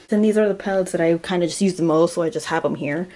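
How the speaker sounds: a little winded, breathing hard. Real, not acted. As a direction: talk while short of breath. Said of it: "why am I out of breath?".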